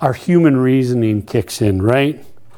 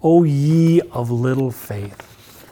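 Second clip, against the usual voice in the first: a gentle, weary rebuke; mock reproving Jesus; slower than usual. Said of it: "when he was angry with them".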